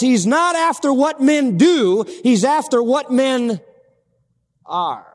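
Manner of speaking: loud, slow hammering of the word being; emphatic preaching. Real, not acted. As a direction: drive each phrase home, slow and loud. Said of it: "I want you to get this".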